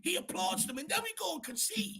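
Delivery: high-pitched, strained outburst; exasperated rant. Real, not acted. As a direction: protest loudly in exasperation. Exasperated rant about the captain.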